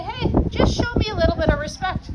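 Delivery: firm request. Shown as a demonstration. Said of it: "So I say".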